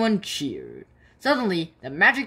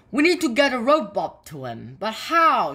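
urgent call; 7 semitones higher, 4 dB louder than usual. Acted. Firemen calling in emergency.

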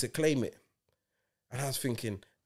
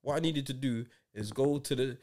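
hammed-up elderly woman greeting the President; playing an eighty-year-old lady on a scam call; mock old lady; 4 dB quieter than usual. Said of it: "the man's pretending to be a lady, like, eighty".

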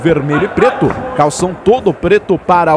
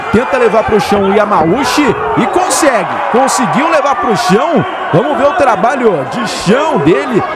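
excited; 4 semitones higher than usual. Real, not acted. Live play-by-play takedown.

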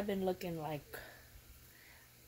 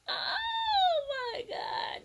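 slow, breathless sob of a whisper; crying whisper; much slower than usual. Real, not acted. Overwhelmed by the gift, whispering through tears.

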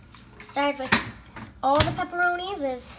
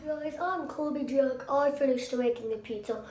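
YouTuber intro. Pretend. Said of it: "like, a YouTube guy?".

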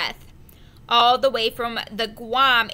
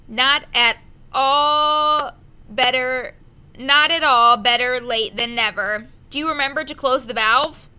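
gruff mate; 6 dB louder than usual. A narrator's reading. First mate scolds the new boy, gruff and loud. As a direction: lecture him like a rough sailor.

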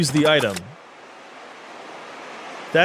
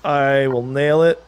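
slow, deliberate confident boast; slow emphatic boast; much slower than usual. Real, not acted. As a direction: drag out in two shots. Boasting before the attempt.

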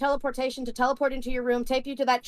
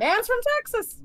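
Texan accent, pitched up; Texan drawl; 9 semitones higher than usual. Shown as a demonstration. Doing American Badass, Texan accent. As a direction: twang it Texan style. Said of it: "a little bit more Texan".

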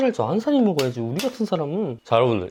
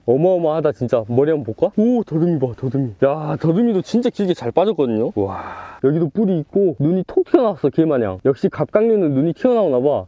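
ordinary delivery

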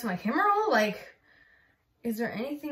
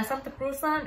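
Filipino-accented "Santa Cruzan", demonstrated proudly; 3 semitones higher than usual. Shown as a demonstration. Showing viewers how you really say it, in a Filipino accent. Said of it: "That was a good Filipino, that was a good Filipino accent".

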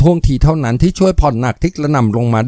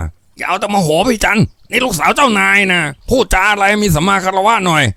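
lightly voiced youth, higher; cautioning henchman; 9 semitones higher than usual. Young Chu cautioning his angry boss. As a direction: warn him to calm down.

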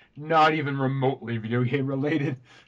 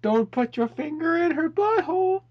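mock announcer voice; 10 semitones higher than usual. Mock airplane banner voice.

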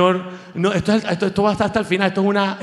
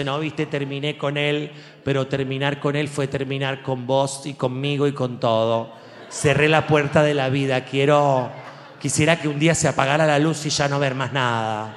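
mock Argentine girl; 4 semitones lower than usual. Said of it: "Las chicas contándose".

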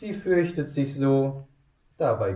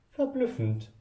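viel höher, staunend; verblüfft; 12 semitones higher than usual. Acted. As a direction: staun mit großen Augen. Grüffelo staunt. (erstaunter Grüffelo)

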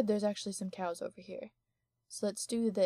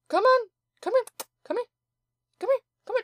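much higher and louder calls; calling out; 13 semitones higher, 7 dB louder, much faster than usual. Real, not acted. Calling a game cow that won't follow, loud and high. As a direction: coax the cow loudly, pleading.

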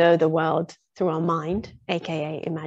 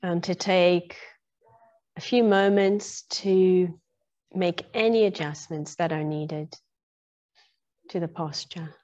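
guided meditation. Real, not acted. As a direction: ease listeners gradually into stillness, phrase by phrase. Leads into a meditation.

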